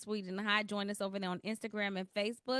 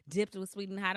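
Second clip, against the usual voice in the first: announcer voice. Shown as a demonstration. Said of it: "I'm trying to put on my announcer voice".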